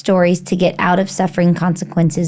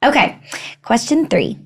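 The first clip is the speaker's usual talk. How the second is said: usual speaking voice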